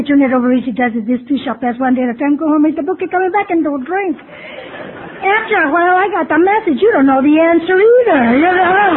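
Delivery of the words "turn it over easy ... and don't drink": same slogans, wearily repeated. Retold or imitated. Another old-timer gives the newcomer the same answer, tired rote repeat. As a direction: say it like you've heard it a hundred times. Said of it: "And again they say".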